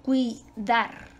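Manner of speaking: "Cuidar" in two beats, cui and dar; diphthong kept together. Shown as a demonstration. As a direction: sound out "Cuidar" syllable by syllable, ui joined. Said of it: "Dos débiles pueden estar unidas".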